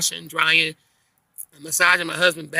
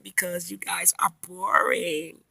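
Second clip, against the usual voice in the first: drawn-out teasing retort; 3 dB quieter, much slower than usual. Retold or imitated.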